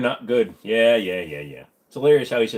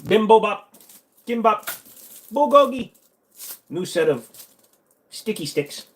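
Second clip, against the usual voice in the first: high, punched-out mock Asian accent; 9 semitones higher, 4 dB louder, slower than usual. Shown as a demonstration. Listing Korean dishes in mock Asian accent. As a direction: call out each dish in an exaggerated Asian accent. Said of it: "do an Asian accent".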